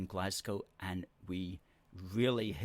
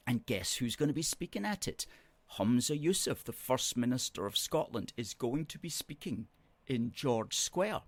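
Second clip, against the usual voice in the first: excited build-up; 4 semitones higher than usual. Real, not acted. Announcing rally speaker.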